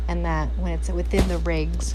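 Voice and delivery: words stretched by a yawn. Real, not acted. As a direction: say it mid-yawn. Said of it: "here I keep yawning today".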